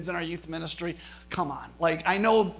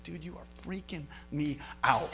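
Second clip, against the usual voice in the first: laughing disbelief; 3 semitones lower, 7 dB quieter than usual. Retold or imitated. Startled by stranger's prophecy.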